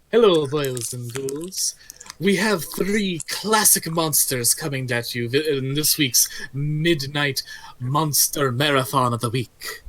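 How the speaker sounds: slow, theatrical vampire host; a lightly voiced Dracula host. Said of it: "that's Dracula voice".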